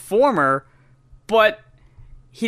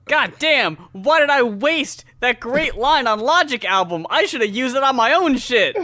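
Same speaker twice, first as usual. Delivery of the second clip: mock exasperation; 5 semitones higher than usual. Acts out guest rapper's regret.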